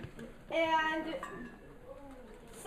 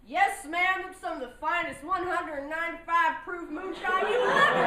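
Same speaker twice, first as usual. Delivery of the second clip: lightly voiced old mountain man; 4 semitones higher, 7 dB louder than usual. Voicing old mountain guy Tony.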